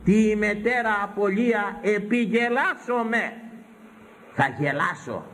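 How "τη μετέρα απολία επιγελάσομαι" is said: slow, high-pitched solemn proclamation; ringing, measured scripture reading, pitched high; declaimed scripture. Acted. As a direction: proclaim the ancient verse, drawing out each word. Declaims scripture in ancient Greek.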